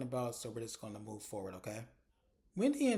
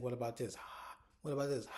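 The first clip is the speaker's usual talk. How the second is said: imitated taunt punctuated by pushed-out breaths; breathing in face; faster than usual. Stacy playing along about bad breath, mock huffing. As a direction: ask it, then huff a breath at them. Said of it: "She's breathing all in Ashley's face".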